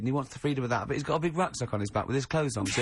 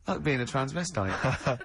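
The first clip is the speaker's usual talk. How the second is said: laughing imitation; slower than usual. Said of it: "in his own mind, just goes".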